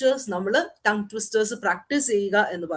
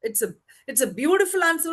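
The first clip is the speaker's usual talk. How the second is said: slow, warm praise of an answer; teacher praising a pupil's answer, slowly; much slower than usual. Shown as a demonstration. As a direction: draw out the compliment slowly. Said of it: "provided ആ ഒരു സിറ്റുവേഷനിൽ മാത്രം".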